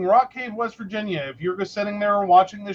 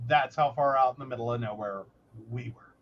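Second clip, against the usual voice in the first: lower, softer, faster aside; throwaway repeat; 10 semitones lower, 6 dB quieter, faster than usual. Shown as a demonstration. Echoing her own punchline, lower, softer, faster aside. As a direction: toss the line off again under your breath. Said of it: "repeated line".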